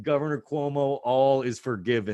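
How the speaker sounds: hammed-up gratitude with a laugh; mock grateful praise. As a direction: gush thanks to the governor, cracking up. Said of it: "And we said".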